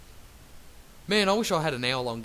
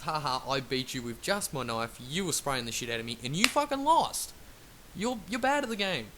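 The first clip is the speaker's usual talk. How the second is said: gloating taunt. Retold or imitated.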